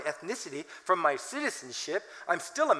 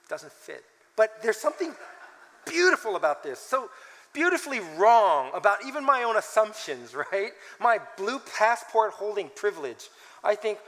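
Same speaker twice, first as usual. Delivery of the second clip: ordinary talk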